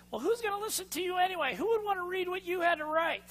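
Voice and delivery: high, soft, belittling inner critic; doubting inner voice. Acted. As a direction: whisper doubts like the voice in your head. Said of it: "your little voice starts saying".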